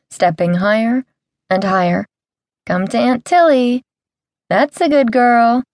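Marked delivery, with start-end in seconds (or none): 2.7-5.6 sing-song coaxing. Acted. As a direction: sweet-talk the monkey, lilting. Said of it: "I coaxed in a sing-song voice".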